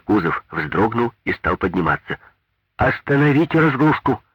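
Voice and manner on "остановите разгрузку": high, loud command; shouting order. A narrator's reading. Maria Ivanovna shouting at the driver to stop unloading. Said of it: "закричала на него Мария Ивановна".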